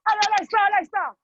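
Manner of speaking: urging shout. Real, not acted. Coach urging class on.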